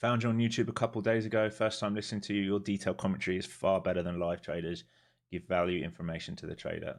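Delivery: reading a chat comment in a clipped mock German accent; a quick, precise German accent read of the viewer's words. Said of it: "I was being precision German".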